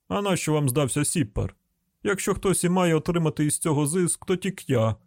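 grumbling hillbilly car owner; rustic householder. Acted.

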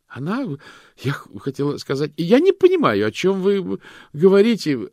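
high, loud panicky stammer; flustered denial. A narrator's reading. Loretta denies it to the detectives, high and panicked. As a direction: stumble over the words, caught out. Suspect panics under interrogation.

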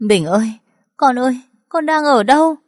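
high, loud desperate cry; howling in the rain. A narrator's reading. Mother screams for her son in the pouring rain. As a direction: scream the child's name into the storm. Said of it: "Tiếng tôi gào lên trong mưa".

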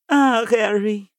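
slow, tender sigh. Acted. Hermione moved by the letter. (terno e compassivo)

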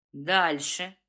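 low, impatient prompt; impatient urging. Acted. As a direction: push him to go on. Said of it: "поторопил Тихомир".

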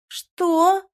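very high, loud "what"; shocked. A narrator's reading. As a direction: gasp it in disbelief. Girlfriend shocked by breakup.

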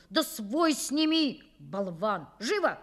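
angry order. Acted. Father still furious at son.

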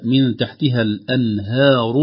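slow "من تحتها الأنهار" with a thin, fronted "haa"; light ha. Shown as a demonstration. Sheikh models correct reading, thin ha in "الأنهار". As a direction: keep the a after h in "الأنهار" light, near "hae". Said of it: "ينبغي أن نحرص على ترقيقها".

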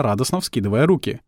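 plain reading voice

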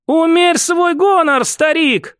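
put-on a woman snapping at a proud old man, stern; cutting rebuke. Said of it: "осадила его Ольга".

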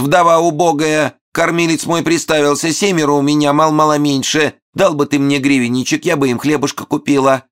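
high whining beggar widow; pitiful widow falsetto. Acted. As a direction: plead in shrill falsetto. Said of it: "пронзительным фальцетом".

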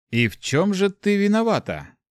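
high-pitched, puzzled question; bewildered. A narrator's reading. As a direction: ask it at a loss. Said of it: "растерянно спросил Март".

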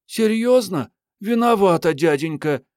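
put-on very high girlish character voice; mock-apologetic girl. A narrator's reading. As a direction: pitch it way up for a cheeky apology. Marietta mockingly apologises to him.

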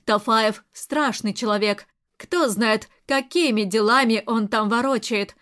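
ordinary delivery, nothing marked

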